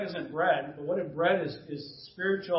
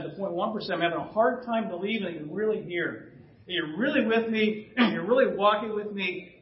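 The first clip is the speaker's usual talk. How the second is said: honest prayer. Retold or imitated. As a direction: pour out a raw confession to God. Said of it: "I've been praying this recently".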